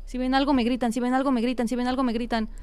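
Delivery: low, even, unbroken nervous chant; nervous repeated muttering. Pretend. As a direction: repeat it in a low monotone like a charm. Nervous chant while searching.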